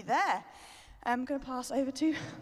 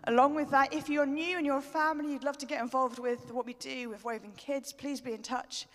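breathless after dancing; talking while catching breath. Real, not acted. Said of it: "I'm out of breath".

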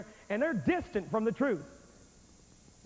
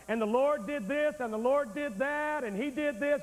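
higher-pitched, run-on preaching patter; mock preaching; 4 semitones higher than usual. Shown as a demonstration. Preacher droning on for listeners dozing off, mock preaching. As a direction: keep preaching in a raised, rolling pitch. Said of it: "I'll continue to preach and I'll say something like".

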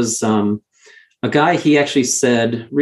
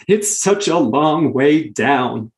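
imitating a drawn-out, tearful joke; slow, jokey retelling of a tearful Marine; joking through tears; much slower than usual. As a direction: stretch it out like a joke covering tears. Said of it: "he covers it up jokingly".

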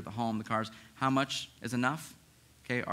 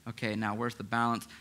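calm, settled asking; humble, open question. Retold or imitated. Pastor voicing the humble reader's calm question. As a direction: ask it as someone who has prayed it through. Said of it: "That's a totally different attitude".

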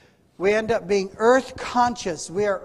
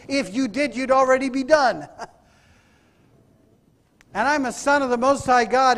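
raised, forceful preacher delivery; emphatic preaching; 4 semitones higher, 4 dB louder than usual. Acted. Preacher voicing son of king's defiance, emphatic preaching. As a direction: proclaim it with conviction.

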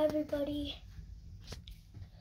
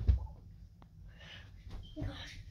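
very slow, drawn-out whispered oh my gosh; 5 dB quieter, much slower than usual. Real, not acted. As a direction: stretch it out in a whisper. Reacting to sour drink.

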